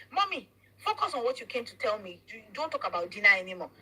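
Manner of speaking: put-on frustrated child. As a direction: son pushing mother to get to the point, frustrated. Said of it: "he started talking very frustrated".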